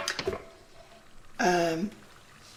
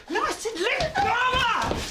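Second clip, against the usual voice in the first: much higher, forceful repeated order; insistent demand; 11 semitones higher than usual. Acted. Neighbour ordering a man to release his partner, insistent demand. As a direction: insist sharply, pitch leaping up.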